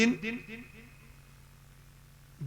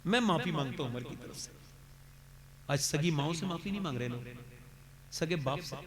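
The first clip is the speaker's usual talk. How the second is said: soft earnest plea; 4 dB quieter than usual. Real, not acted. Softened reflective sermon.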